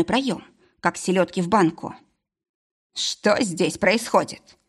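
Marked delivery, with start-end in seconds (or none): 2.9-4.6 suppressed anger. Acted. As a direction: hold back the rage, very slow. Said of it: "звенела придушенная злость".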